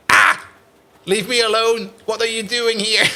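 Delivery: mock startled yell. Imitating someone finding him in their living room, mock yell. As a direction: shoo an intruder with a comic shriek. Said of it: "It's more like".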